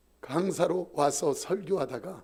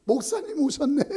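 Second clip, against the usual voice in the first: tipsy greeting; 8 semitones higher, 5 dB louder than usual. Retold or imitated. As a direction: greet the pastor like a happy drunk. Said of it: "술이 거나하게 취해가지고". (술 취한 형님이 목사를 반기는 느릿한 높은 목소리)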